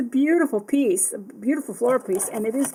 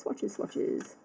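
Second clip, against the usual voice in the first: whispered sing-song; 3 semitones lower, 12 dB quieter than usual. Real, not acted. Humming to herself while working.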